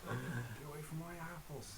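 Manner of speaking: put-on Somerset accent. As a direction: shoo kids off in Somerset. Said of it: "proper Somerset accent".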